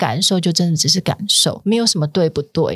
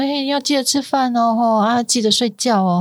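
caring; 5 semitones higher than usual. Acted. Voices caring advice to heartbroken friend.

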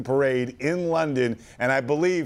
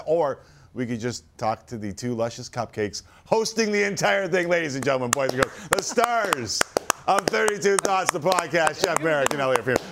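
grand entrance announcement. Acted. Host introduces podcast guests grandly.

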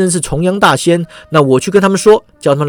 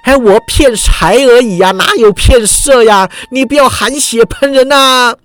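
hasty denial; 7 semitones higher than usual. Acted. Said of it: "重阳道人忙道".

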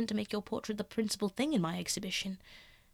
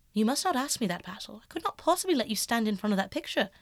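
lightly voiced youth, a touch higher; young Dorian; 3 semitones higher than usual. Dorian guarding his secret from Basil, lightly higher.

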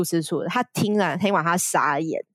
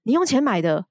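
disbelieving question; 5 semitones higher than usual. Retold or imitated. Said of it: "他甚至怀疑自己听到什么".

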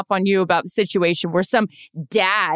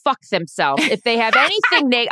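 higher-pitched, indignant outburst; angry rant; 4 semitones higher than usual. Real, not acted. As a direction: protest hotly on a friend's behalf. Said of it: "I get so angry about this".

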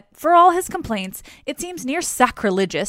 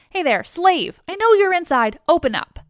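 raised, higher-pitched mock yell; 8 semitones higher, 5 dB louder than usual. A narrator's reading. Dionysus at the door when no one answers, acted yell. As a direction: call insistently through a closed door. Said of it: "yelling inside when no one answers".

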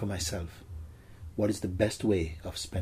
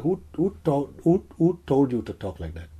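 higher, taken-aback question; astonished retort; 6 semitones higher, 6 dB louder than usual. Retold or imitated. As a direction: stammer "who" in amazed disbelief. Acts out his astonished reply.

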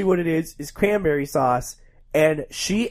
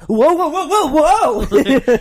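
high, loud whoa; hammed-up startled yelps; high mock alarm; 8 semitones higher, 5 dB louder than usual. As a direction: squeak out panic. Acted alarm.

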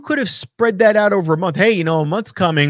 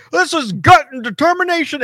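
mocking Jim Ross; 7 semitones higher than usual. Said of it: "He said".

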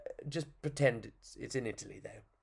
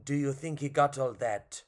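put-on French accent. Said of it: "which is French".

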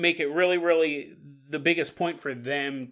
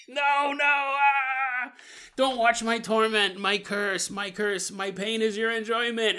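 mock tormented werewolf; 4 semitones higher than usual. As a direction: play the caged werewolf begging not to be watched. Caged werewolf lamenting.

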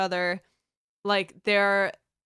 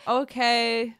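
drawn-out, mock-grudging okay; passive-aggressive; 2 semitones higher than usual. Partner giving in on dinner, passive-aggressively. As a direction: give in while making the objection heard. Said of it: "or, like, passive aggressively".

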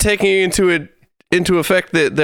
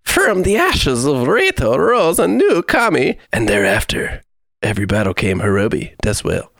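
dramatic flavor-text voice. Acted. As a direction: read it like a grand legend, fading down. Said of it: "a voice going on here".

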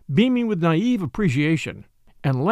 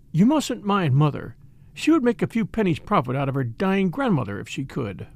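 mildly kind. Acted. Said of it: "remarking kindly".

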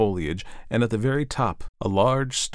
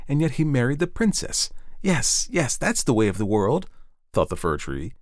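lightly voiced fir tree; 3 semitones higher than usual. The fir tree dreaming of the evening, lightly hopeful.

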